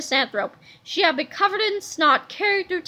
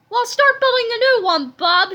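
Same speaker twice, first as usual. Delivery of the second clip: higher, louder bossy shout; Creppy bosses the inventor, louder; 7 semitones higher, 6 dB louder than usual. A narrator's reading. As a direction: order it loudly. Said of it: "shouted Creppy the Kid".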